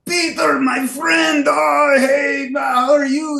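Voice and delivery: put-on high, loud, booming Swiss-accented greeting; imitating a Swiss accent, high and shouted with joy; a musician with a Swiss accent. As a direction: call out like a big friendly Swiss bear greeting an old pal. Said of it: "a big bear of a man with a Swiss accent".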